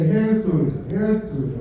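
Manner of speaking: loud "Here's to ya, here's to ya" the way Dad called it; Dad's toast. Retold or imitated. Teaching the mourners her dad's toast, called out loud. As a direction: call the toast twice, loud and warm. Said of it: "but you say".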